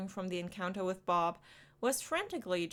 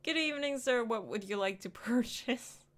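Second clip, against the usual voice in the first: high bright customer-service voice; chirpy shop greeting; polite cashier greeting; 4 semitones higher than usual. Shown as a demonstration. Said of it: "I'm just a miserable, tasteless cashier".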